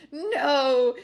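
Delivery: loud dying scream. Acted. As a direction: cry out as he's stabbed. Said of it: "he screamed".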